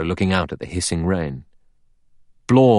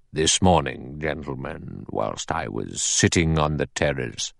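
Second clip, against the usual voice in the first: lightly voiced elderly judge, a touch lower and measured; a hint of a grave old judge addressing the men; 3 semitones lower than usual.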